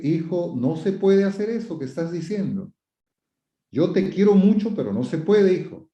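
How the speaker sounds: gentle but firm parental correction; firm without shouting. Shown as a demonstration. Parent telling a son he's loved but can't, gently firm. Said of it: "no es necesario gritar".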